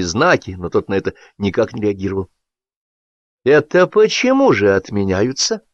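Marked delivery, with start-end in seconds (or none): 3.4-5.6 vengeful challenge. A narrator's reading. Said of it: "с мстительным вызовом".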